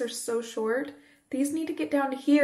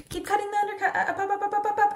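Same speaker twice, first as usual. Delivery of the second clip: excited; 11 semitones higher, faster than usual. Retold or imitated. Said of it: "I was like".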